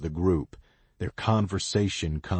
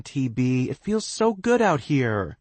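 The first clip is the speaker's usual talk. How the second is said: bright, high, cheerful call; enthusiastic; 8 semitones higher, 5 dB louder than usual. A narrator's reading. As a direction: call out happily. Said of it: "the enthusiastic voice calls out to her".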